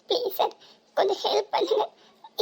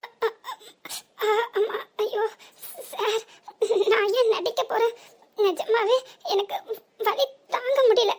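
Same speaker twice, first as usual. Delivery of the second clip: pained crying. Acted. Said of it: "நடிச்சது போதும்".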